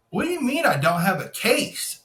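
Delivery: mildly incredulous rising question; retold incredulity. Retelling his challenge to the officer, mildly incredulous. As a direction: echo it back in mild disbelief. Retold protest at being refused.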